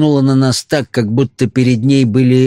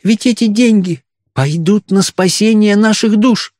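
put-on old woman whispering; 10 semitones higher than usual. A narrator's reading. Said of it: "прошептала старуха".

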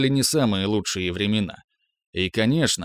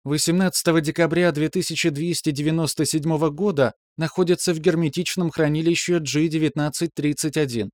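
higher, even computer announcement; metallic system voice; 5 semitones higher than usual. Acted. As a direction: read it like a detached machine. Archive system voice continues.

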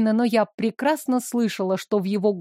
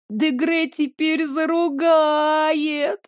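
slow, higher tearful wail; 5 semitones higher, much slower than usual. A narrator's reading. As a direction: whimper it through tears. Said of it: "Она всхлипнула". (плаксиво, сквозь слёзы)

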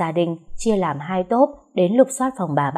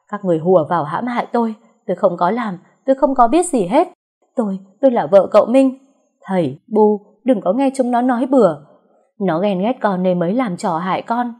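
panicked denial; 2 semitones higher, 3 dB louder than usual. Acted. Accused Mai panics before her in-laws, loud frantic pleading. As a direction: deny everything in a frantic rush. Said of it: "Mai bắt đầu hoảng loạn".

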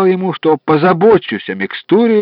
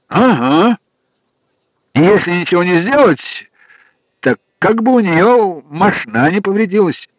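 jolly farmer voice; 3 semitones higher than usual. Acted. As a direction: play a chatty farmhand. Farmer caller's voice.

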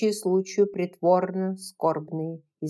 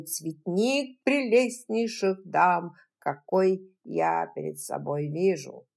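formal speech. Acted. Doctor's formal speech at bazaar.

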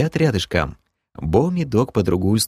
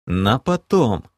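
amused snort; slower than usual. Acted. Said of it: "хмыкнул я".

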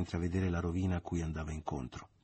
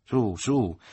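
louder, higher hearty coaxing; coaxing urge; 4 semitones higher, 7 dB louder than usual. A narrator's reading. Leo coaxing Michele, hearty and louder. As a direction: urge the boy to shake hands.

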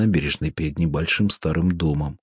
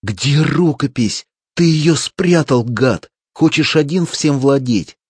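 higher, louder, slow furious yell; furious shout; 7 semitones higher, 6 dB louder than usual. A narrator's reading. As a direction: scream it at him as you grab his shoulders. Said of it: "вцепился в его плечи и закричал".

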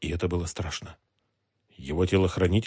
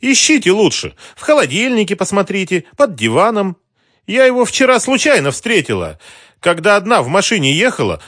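high, loud sarcastic outrage; mocking outrage; 13 semitones higher, 9 dB louder than usual. A narrator's reading. Mara mocking the thugs, high and loud. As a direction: ridicule the search, then protest.

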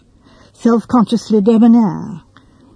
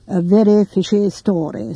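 grave. Acted. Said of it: "said Sir Henry Clithering gravely".

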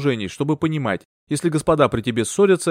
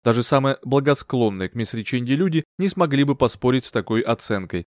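plain reading voice

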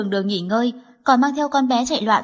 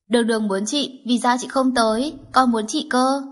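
put-on whining little girl; 3 semitones higher than usual. Little girl begging her father for her sister, whiny. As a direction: beg like a toddler who wants her sister.

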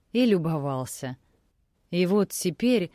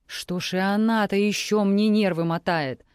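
usual speaking voice

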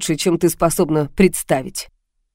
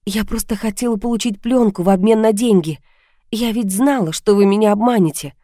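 lightly voiced heroine, higher and defensive; anxious heroine; 4 semitones higher than usual. Heroine justifying the trap to the blackmailer, defensive. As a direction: lift the voice a little, pleading her case.

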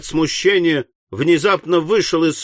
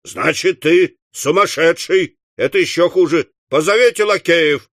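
higher, raised-voice outburst; mildly furious old master; angry accusation; 4 semitones higher than usual. Acted. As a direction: accuse him, then order sharply. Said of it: "повторил старый джентльмен".

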